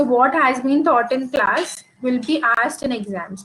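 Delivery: "So what has been taught in class will be asked in exams" reread slowly, "So" stressed. Shown as a demonstration. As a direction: lay the sentence out slowly for the class. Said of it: "what I mean here by this slide".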